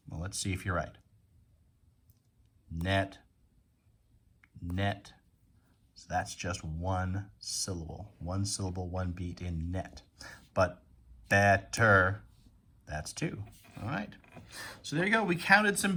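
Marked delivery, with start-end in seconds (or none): 2.7-5.1 level-toned single beat on "Net"; talking like a robot. Shown as a demonstration. Teacher checking pupils' count on "Net", robot-like. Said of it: "Talk like a robot". 11.3-12.2 "better" split into two punched beats; robot syllables. Shown as a demonstration. Teacher contrasting "better" with one-beat net, robot-like. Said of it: "Talk like a robot".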